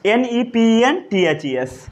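letter by letter, a little slow; spelling out. Shown as a demonstration. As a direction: spell each letter out for the class. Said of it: "spelling बोलिए".

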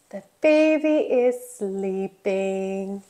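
low, soft and gentle; hushed. Pretend. Telling children a baby is sleeping, hushed.

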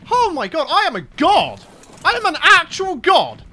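exultant self-praise; triumphant boasting. Real, not acted. Boasts after great shot.

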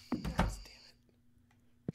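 slow, soft whispered swearing; real voiceless frustration; whispered curse. Real, not acted. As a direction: curse under the breath, drawn out. Cursing the loss under breath.

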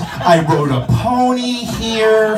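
apologetic lady. Retold or imitated. Guest apologizing to waiter, lightly voiced sheepish lady. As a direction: mumble apologies while grabbing food. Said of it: "the apologetic sorry lady".

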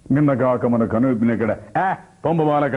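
lightly scornful stage declamation; S V Ranga Rao. Shown as a demonstration. Actor as Chanakya dismissing a boy, mildly scornful declamation. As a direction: settle from verse into a theatrical dismissal. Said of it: "Rangarao గారు చాణక్యుడు వేస్తే".

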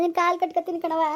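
pleading through tears; crying plea. Acted. Stepmother begging her stepdaughter, crying. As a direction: beg her forgiveness while crying. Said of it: "ಅಳ್ಬೇಡಿ, ಸುಮ್ನಿರಿ".

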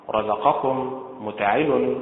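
رزقكم stressed on the ر, slowly; stress on first vowel. Shown as a demonstration. Teacher models Quranic stress on رزقكم, slow and deliberate. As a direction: lean on the opening syllable of رزقكم. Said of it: "النبر فيها على حركة الراء".

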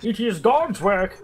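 lightly voiced movie-villain impression; a hint of a put-on villain voice; Bane. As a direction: slip briefly into a mock villain voice. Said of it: "did a Bane accent".

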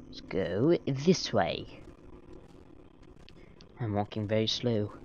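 light put-on British accent. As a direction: slip into a playful British accent. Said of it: "I'm doing a British accent".

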